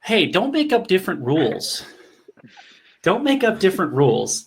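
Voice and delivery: laughing. Real, not acted. Joking protest during push-up challenge.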